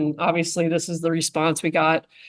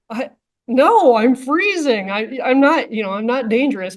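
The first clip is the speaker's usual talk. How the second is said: higher, pleading voice; imitating the suspect; 5 semitones higher than usual. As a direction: whine it like a freezing man protesting. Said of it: "And he's just like".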